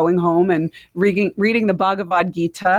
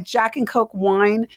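questioning; 4 semitones higher, slower than usual. Real, not acted. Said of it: "Is that how it went down?".

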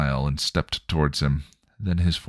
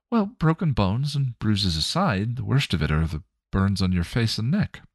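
lightly voiced kind mother, a bit higher; Joyce, gentle mother; 3 semitones higher than usual. Joyce's spirit reassuring Spike, lightly voiced gentle mother.

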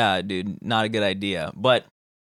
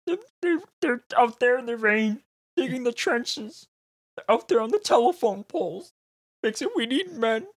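mock preacher; 8 semitones higher than usual. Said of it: "Have you seen that video?".

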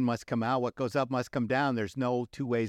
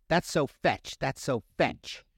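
Gretchen impression; 3 semitones higher, slower than usual. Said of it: "Gretchen ... keeps saying".

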